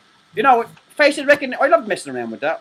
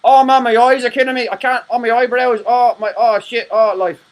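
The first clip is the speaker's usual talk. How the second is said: louder moaning complaint, hammed-up; mock hungover groaning; 5 semitones higher, 5 dB louder than usual. Acting out a three-day vodka hangover, mock groaning. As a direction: groan through a pretend hangover. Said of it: "a hangover where, you know".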